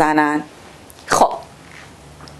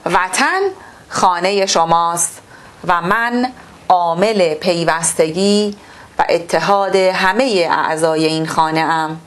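measured, formal reading-aloud voice; textbook reading; 3 semitones lower than usual. Acted. Teacher reading the textbook to pupils, formal and measured.

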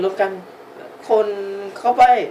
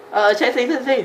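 put-on high, louder little kid voice; child voice; 9 semitones higher, 4 dB louder than usual. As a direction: squeak it out like a small child. Dubbing the child's lines. (เสียงเด็กเล็กแหลมสูง)

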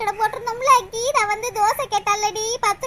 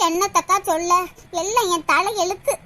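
gloomy; 3 semitones lower than usual. Acted. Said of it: "ஏன் இம்புட்டு கவலையா பேசுற?".

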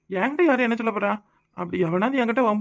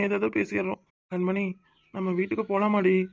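sad; 4 dB quieter than usual. Acted. Husband regretting leaving parents.

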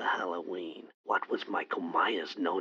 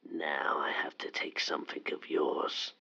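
menacing whisper. Acted. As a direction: tease her like a masked killer. Killer caller threatens.

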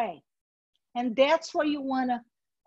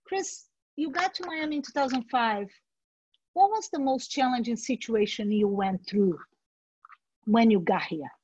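good interviewer question; 3 semitones lower than usual. Shown as a demonstration. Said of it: "If you ask".

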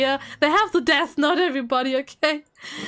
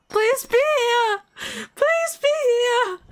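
pleading; 6 semitones higher than usual. Real, not acted. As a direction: beg the winner to be there. Pleading for the winner to appear.

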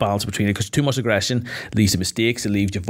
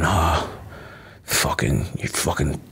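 mock passive-aggressive manager; 4 semitones lower than usual. Manager belittling his employee, lower snide mock put-down. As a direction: belittle them like a snide boss. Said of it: "but he's maybe passive aggressive".

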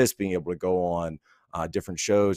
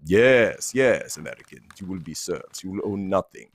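lightly voiced Bond villain. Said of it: "Bond villain voice".

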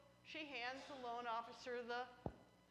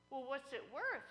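teller asking; 3 semitones higher, 4 dB louder than usual. Acted. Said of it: "And she said".

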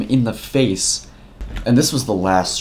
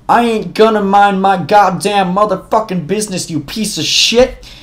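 Utah redneck; 9 semitones higher, 4 dB louder than usual. Retold or imitated. Matt threatening the bully with a higher Utah redneck twang. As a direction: let the inner redneck snarl out. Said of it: "Matt's inner Utah redneck comes out".

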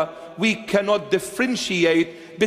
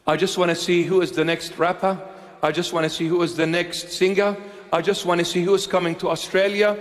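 eager fan; 4 semitones lower, faster than usual. Retold or imitated. Mimicking eager concert fans.

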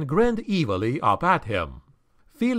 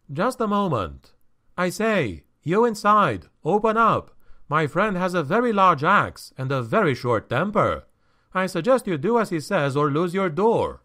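lightly voiced higher-pitched traveler, politely insistent; a higher, mildly urgent appeal through a door; Felix urging those inside; 6 semitones higher than usual. Traveler warning the people inside to open up, mildly urgent.

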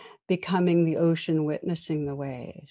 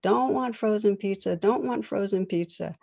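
a child's protest pitched higher, lightly voiced; mock upset child; 4 semitones higher than usual. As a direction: repeat it like a fussy four-year-old. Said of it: "He gets increasingly upset".

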